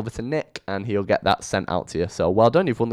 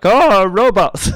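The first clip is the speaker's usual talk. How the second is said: high, slow, dopey voice; clueless mock answer; 12 semitones higher, 10 dB louder, much slower than usual. Couple baffled by engineer questions, answering in a high dopey voice. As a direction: play dumb, drawing out robots.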